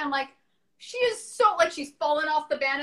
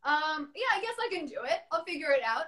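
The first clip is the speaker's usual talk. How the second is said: nervous housewife; 5 semitones higher than usual. Retold or imitated. Voicing nervous housewife character.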